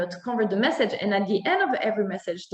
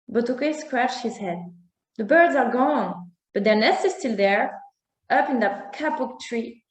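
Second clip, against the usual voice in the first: story narration. A narrator's reading. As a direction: read it like a bedtime tale for children.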